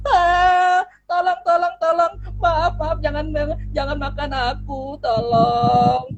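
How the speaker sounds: high, desperate pleading squeak; begging mouse. Acted. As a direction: beg for your life, little mouse. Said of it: "Tikus selalu memohon". (tikus memohon-mohon dengan suara tinggi ketakutan)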